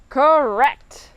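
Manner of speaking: mildly smug, drawn-out reply. Retold or imitated. Captain owning up to his first officer, smug and proud. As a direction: answer with proud self-satisfaction. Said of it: "all smug and proud of himself".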